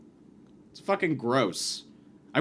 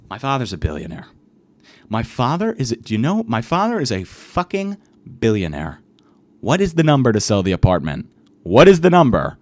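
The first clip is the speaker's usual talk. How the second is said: louder and louder, lower, swaggering; fake billionaire bluster; 3 semitones lower, 9 dB louder than usual. Stoned guy posing as billionaire to the stranger, loud bluster. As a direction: bark it like a spoiled rich heir. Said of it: "pretending to be a billionaire".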